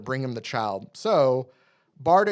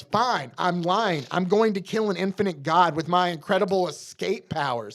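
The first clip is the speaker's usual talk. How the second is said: higher, dry sarcastic retort; 5 semitones higher than usual. Retold or imitated. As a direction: lay the sarcasm on thick. Mister Miracle sarcastic reply.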